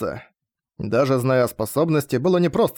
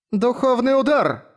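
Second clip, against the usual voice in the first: much higher, slow battle call; shouted attack name; 10 semitones higher, slower than usual. Acted. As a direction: cry the skill name out as you strike. Lepis calls out her attack.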